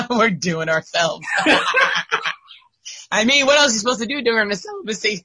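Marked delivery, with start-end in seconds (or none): 0.1-3.1 laughing. Real, not acted. Repeating the joke.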